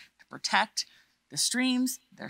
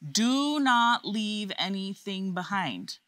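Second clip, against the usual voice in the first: teacher voice; slower than usual. Shown as a demonstration. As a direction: spell out the rule like a strict teacher. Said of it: "I'm gonna say that again in my teacher voice".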